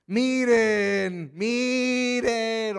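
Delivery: healed man losing patience with the Pharisees, exasperated yell. Acted. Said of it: "Es posible que ya estaba gritando".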